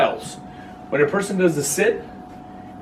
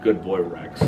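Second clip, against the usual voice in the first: flat praise; 8 semitones lower, 4 dB quieter, slower than usual. Retold or imitated. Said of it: "they were real bad at it".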